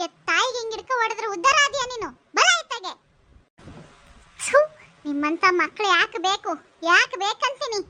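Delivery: outraged neighbour telling him off; acted angry reproach; indignant scolding. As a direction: berate him sharply. Neighbour scolds son for beating mother.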